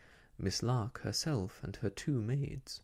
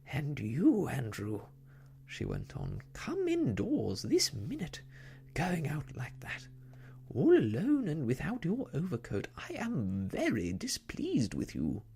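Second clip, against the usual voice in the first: scolding lady voice; 4 semitones higher than usual. Acted. Fussy lady scolding her dog.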